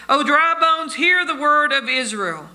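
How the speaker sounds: acted prophetic summons; prophetic proclamation. Prophet commanded to address the bones.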